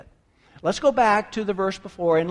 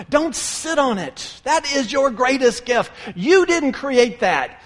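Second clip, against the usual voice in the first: loud, raised, spaced-out emphasis; forceful exhortation; 4 semitones higher, 4 dB louder than usual. Acted. Jesus corrects Peter about his gift, loud and emphatic. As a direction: drive each phrase home, slow and loud.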